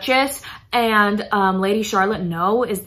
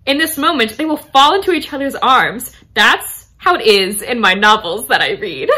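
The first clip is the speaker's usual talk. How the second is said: higher, louder gushing romantic friend; retold dreamy Charlotte; 4 semitones higher, 5 dB louder than usual. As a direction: gush lightly like a romance reader. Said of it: "She goes, Lady Charlotte".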